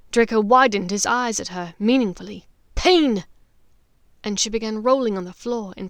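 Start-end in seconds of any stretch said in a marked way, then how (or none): 2.7-3.3 loud, higher cry of pain; pretend agony. Hermione faking agony for Bellatrix. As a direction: fake the agony.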